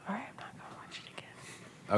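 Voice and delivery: breathy whispered aside. Retold or imitated. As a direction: hush it under your breath. Quoting her own reply to Paul.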